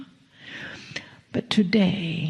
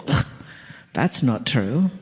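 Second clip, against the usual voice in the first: a lower, grumbling inner voice of doubt; 6 semitones lower than usual. Retold or imitated. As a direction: voice the nagging little voice, dismissive and a touch lower. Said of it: "a little voice inside of your head that says".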